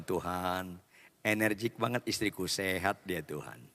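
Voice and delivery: low, soft inner prayer to God; a husband quietly praying about his energetic wife; hushed prayer. Retold or imitated. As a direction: murmur it like a private aside to God.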